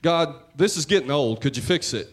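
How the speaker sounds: fed-up complaining to God, half-acted; a weary, nagging rant of a prayer; a mock rant at God, sick and tired; exasperated rant. Shown as a demonstration. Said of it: "a rant sounds like this".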